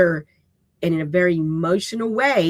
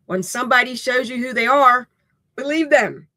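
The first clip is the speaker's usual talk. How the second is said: a light, raised hint of a wise elder quoting; Maya Angelou quote; 6 semitones higher, 3 dB louder than usual. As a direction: lightly voice a revered poet's saying. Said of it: "repeated by her numerous times".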